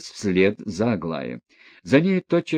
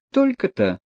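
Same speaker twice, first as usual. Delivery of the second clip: much higher, openly amazed; loud surprise; 10 semitones higher than usual. Acted. Aglaya surprised at the prince's small fortune, frank. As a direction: let the surprise burst out frankly. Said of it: "громко и откровенно удивилась".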